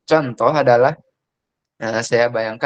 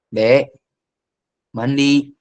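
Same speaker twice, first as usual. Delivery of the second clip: calling a bit louder; raised voice; 3 dB louder, much slower than usual. Shown as a demonstration. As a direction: call the kid again, firmer. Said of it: "meningkat lagi". (memanggil lebih keras)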